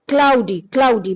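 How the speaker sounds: क्लाउडी as two beats, klau-dee, said twice; two-syllable pronunciation. Shown as a demonstration. Teacher modelling how we say it, क्लाउडी in two beats. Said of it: "बस हम इसको क्लाउडी कहते हैं".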